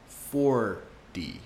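"Four D" slowly spelling out the sound. Shown as a demonstration. Teacher breaking "forty" into parts. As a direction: stress the D of "forty". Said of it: "turn the T into a D".

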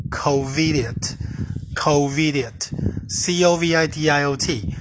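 slow letter-by-letter spelling. Shown as a demonstration. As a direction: spell each letter out slowly for the class. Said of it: "第一个字叫做covidiot".

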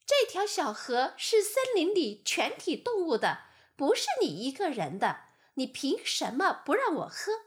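a little lamb talking back; indignant lamb. Acted. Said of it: "小羊大声反驳道". (小羊大声反驳)

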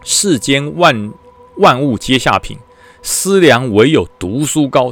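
put-on slow, drawn-out recitation of the old saying; recited proverb. Commander reciting an old proverb to two soldiers, slow and solemn. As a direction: intone it like a classical verse. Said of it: "古时候啊".

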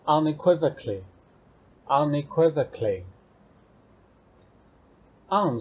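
unequivocally spelled out slowly, every syllable clear; teacher slowly models a long vocabulary word. Shown as a demonstration. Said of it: "下一个单字unequivocally".

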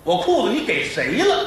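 demanding, rising to a high sharp challenge; a hint of a bickering husband; angry husband. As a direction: confront your wife, indignant. Husband confronts wife at night.

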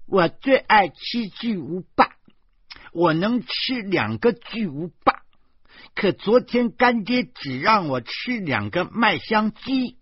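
put-on high, loud childish voice; little girl. A narrator's reading. Little devil complaining to godmother about godfather, high and loud. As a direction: declare it loudly in a child's high pitch.

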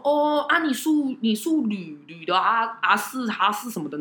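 put-on light Taiwanese-accented Mandarin; hint of a taxi driver's Taiwanese accent. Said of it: "有一些腔调".

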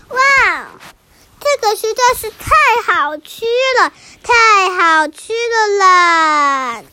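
excited wolf. Acted. Wolf tastes chocolate.

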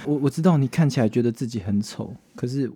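a lightly voiced drunk tender talk to a cat; tender pleading. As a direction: murmur gently to a rescued kitten.

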